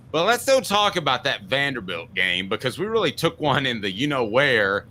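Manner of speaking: a lightly voiced fretful fan, hushed gossip; mock fan. Fan confiding to his buddy at the cooler, lightly mocked. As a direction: play a nervous Alabama fan at the water cooler. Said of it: "walk up to your buddy ... and say".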